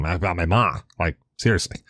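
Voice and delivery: brief, casual Bronx accent. Shown as a demonstration. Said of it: "so, you know, Bronx accent".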